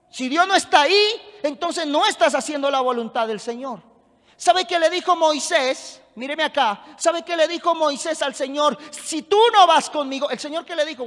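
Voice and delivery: emphatic pulpit proclamation; forceful preaching. Real, not acted. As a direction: preach it with conviction, driving each phrase.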